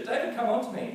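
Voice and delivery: high whiny schoolkid voice; mock tattling kid. Kids running to a teacher, a high whiny tattle.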